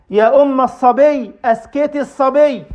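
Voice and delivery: calling out loud. Acted. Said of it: "فينادي بأعلى صوته".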